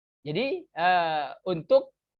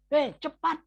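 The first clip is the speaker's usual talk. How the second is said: mock yell; 10 semitones higher than usual. Teacher reading an exclamation-marked text to students, mock yell. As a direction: imitate a pushy chat message read as shouting. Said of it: "kayak dia teriak-teriak gitu".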